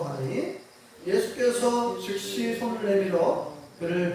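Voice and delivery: slow, measured Bible reading; scripture reading. Acted. Pastor leads the congregation in reading the verses, measured. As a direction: read the verses aloud, measured and steady.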